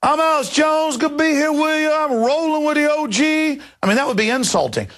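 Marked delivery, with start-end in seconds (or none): 0.0-3.6 high, hammed-up Black vernacular speech; mock Black vernacular accent. White host pandering to black audience, fake Black vernacular accent. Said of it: "as a white guy if I got in front of a black audience like".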